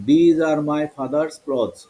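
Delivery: "These", "father's", "clothes" with th as দ; slow model reading, "These" starting with d; teacher's demo, "clothes" with a দ sound. Shown as a demonstration. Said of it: "এখন বলছি দ".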